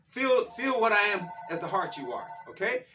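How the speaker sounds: excited, insistent preaching; fired up. Real, not acted. Preacher telling listeners this is truth, fired up. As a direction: press the good news with energy. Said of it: "be grateful that I'm fired up".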